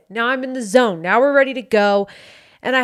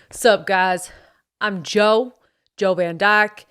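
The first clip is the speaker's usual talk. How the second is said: lightly voiced American bro accent; slower than usual. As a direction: slip back into the cocky bro character. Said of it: "let me re-get into character".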